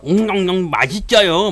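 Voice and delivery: loud mock munching, words drawn out; smacking eater. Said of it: "네, 짭짭대면서". (쩝쩝대며 먹는 과장된 흉내)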